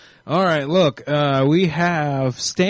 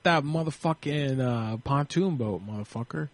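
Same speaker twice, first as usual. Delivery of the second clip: understated prank request; 6 dB quieter than usual. Pretend. Prank request, first take, not caught.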